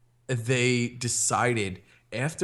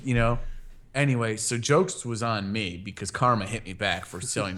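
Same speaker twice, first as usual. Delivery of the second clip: ordinary delivery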